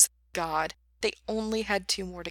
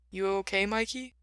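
hesitant; 2 semitones higher than usual. A narrator's reading. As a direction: ask gingerly, afraid to interrupt. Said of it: "Ray sounded hesitant".

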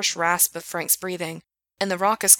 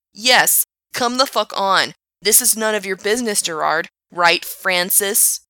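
sneering; 2 semitones higher, 5 dB louder than usual. Acted. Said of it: "Asshat sneered".

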